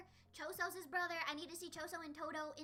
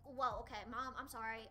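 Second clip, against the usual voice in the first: lightly voiced lower apology; apologetic daughter imitation; 6 semitones lower than usual. Imagining Maki talking to her mom, low mock apology. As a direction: drop the pitch for a mock apology. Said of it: "looking for her mom to say".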